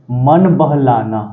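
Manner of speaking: मन बहलाना said slowly for note-taking; teacher dictating the meaning; slow dictation. Shown as a demonstration. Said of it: "इसका Hindi word देखो क्या होता है".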